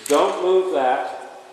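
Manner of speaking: slow, firm commanding voice; firm and in control. Acted. Trainer showing the firm energy to use with a horse, slow and commanding. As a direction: state it slowly, leaving no room for argument. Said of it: "the energy to say to this horse".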